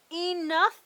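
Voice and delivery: loud rising "Enough!"; villagers' shout. Acted. Villagers shouting at the dragon, loud. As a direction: cry it out as the fed-up crowd. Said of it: "The villagers had had enough".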